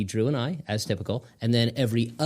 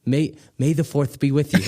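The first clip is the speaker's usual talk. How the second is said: excited quote; 5 semitones higher, 4 dB louder than usual. Real, not acted. Excited Star Wars quote.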